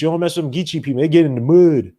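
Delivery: put-on Geechee Southern accent; amateur imitation of a down south accent. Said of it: "with my terrible accent".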